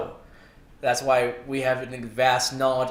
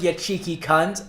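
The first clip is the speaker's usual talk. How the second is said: a hint of an Australian accent, slow; lightly mock an Australian accent; barely-there Australian accent, quoting Jim Jeffries; bad Australian accent; 2 semitones higher than usual. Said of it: "so terrible fucking accent".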